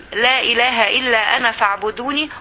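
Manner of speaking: slow, measured verse quote; deliberate recital of a holy verse; scripture quotation. Acted. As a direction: set the verse out slowly. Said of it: "وقال الله سبحانه وتعالى عن نفسه".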